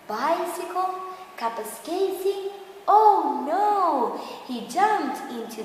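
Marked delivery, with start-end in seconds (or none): 0.1-4.2 higher, louder rising alarm; oh no cried out in alarm; panicked father. Acted. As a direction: realise the danger and cry out. Father panics about daughter.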